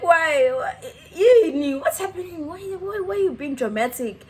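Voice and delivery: high, agitated mock pleading; whiny-high retold objection; retold protest. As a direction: act out high-pitched indignation. Acting out protest to bouncer.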